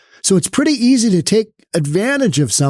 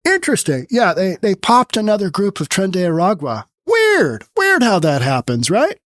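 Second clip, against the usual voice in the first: mock naive surprise. Commentator mocking people who act surprised at gang news, in a sarcastic fake-innocent voice. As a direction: play dumb and sarcastic, as if it's a total shock. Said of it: "you're gonna be like".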